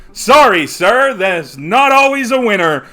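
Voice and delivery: lightly voiced showy game barker; carnival barker. Barker turning away a losing contestant, lightly voiced showman. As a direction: play a patronizing fairground host.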